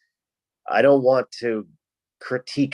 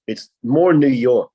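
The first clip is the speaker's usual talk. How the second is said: Rhode Island accent; 3 semitones higher, 5 dB louder, slower than usual. Shown as a demonstration. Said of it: "where I'm from in Rhode Island".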